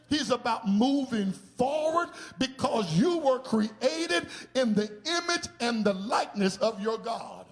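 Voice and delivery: fiery climax of a sermon; preaching at full force. Acted. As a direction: drive it home like a Sunday preacher. Preacher builds to a shout.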